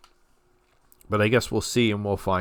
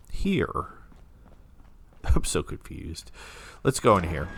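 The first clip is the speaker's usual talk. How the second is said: talking with a tissue in the nose; one nostril plugged with tissue; 2 semitones lower than usual. Real, not acted. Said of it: "gonna shove a tissue up my nose".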